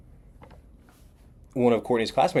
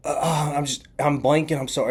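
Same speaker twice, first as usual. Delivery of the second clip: higher-pitched, stumbling apology; flustered blanking; 6 semitones higher than usual. Retold or imitated. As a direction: imitate someone embarrassed at forgetting. Acting the flustered, apologetic stranger.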